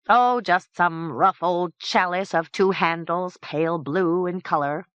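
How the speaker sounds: a light touch of a fussy guest; fussy knight. Acted. Sir Pompom states his wish.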